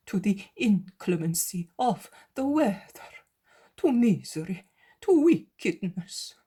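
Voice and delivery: the zealot pleading with his master, anguished. Acted.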